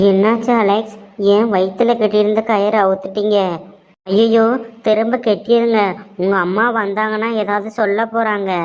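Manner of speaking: a touch of worry, pleading with him; worried captive woman. Acted. Voices Shilpa, worried captive woman.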